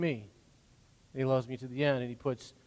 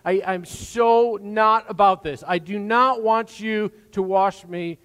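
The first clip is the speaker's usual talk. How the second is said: flustered; 6 semitones higher, 8 dB louder, slower than usual. Retold or imitated. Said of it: "Peter is flustered".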